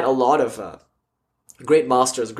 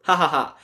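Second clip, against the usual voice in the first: mocking laugh. Challenger mocks the swami.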